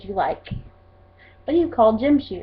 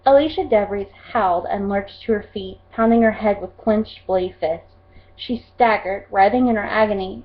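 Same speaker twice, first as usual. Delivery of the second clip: steady, intense read of a battle passage; dramatic reading. Acted. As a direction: read it like gripping sci-fi narration. Reads book passage aloud.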